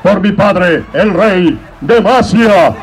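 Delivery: príncipe heroico, declamando; grito de guerra de Jarvan IV. Retold or imitated. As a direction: proclama como un rey guerrero. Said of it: "Jarvan cuarto". (voz épica de Jarvan IV)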